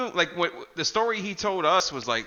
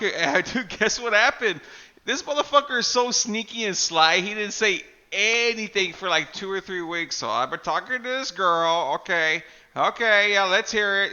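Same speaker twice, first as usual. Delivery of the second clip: higher and louder, eager to spill; excited gossip; 4 semitones higher, 5 dB louder than usual. Retold or imitated. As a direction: hype up the juicy news. Imitating Chris telling Mark, excited.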